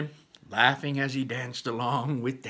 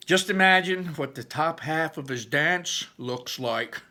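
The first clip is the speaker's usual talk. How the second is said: slow, higher, lightly voiced older brother; Barley's voice; 5 semitones higher, 6 dB louder than usual. A narrator's reading. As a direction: tease about the dance. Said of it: "that was Barley's voice".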